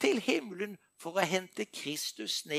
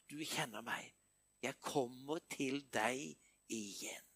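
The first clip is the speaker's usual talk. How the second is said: whispered prayer; 5 semitones lower, 9 dB quieter than usual. Real, not acted. Intimate prayer to God.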